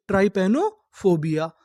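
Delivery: "ट्राइपैनोफोबिया" a little slowly, with a break before फोबिया; split in two. Shown as a demonstration. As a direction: say "ट्राइपैनोफोबिया" in two measured parts. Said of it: "तोड़-तोड़ के पढ़ते हैं". ("ट्राइपैनोफोबिया" को दो हिस्सों में, थोड़ा धीरे पढ़ें)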